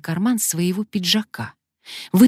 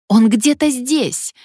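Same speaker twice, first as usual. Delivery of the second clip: high, loud, slow shriek; 8 semitones higher, 5 dB louder, slower than usual. Acted. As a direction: shriek while searching. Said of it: "верещала Алёна".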